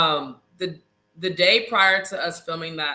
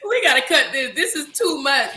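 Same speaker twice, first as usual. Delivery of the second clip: laughing quote; 7 semitones higher, 5 dB louder than usual. Retold or imitated. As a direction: keep giggling while mocking the editors. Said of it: "They're like".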